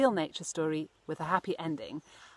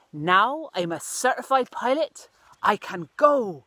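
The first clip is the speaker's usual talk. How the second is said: put-on louder, eager young bird voice; excited little bird; 3 semitones higher, 7 dB louder than usual. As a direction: burst out with pride at being a pilot. Cyril proud and excited.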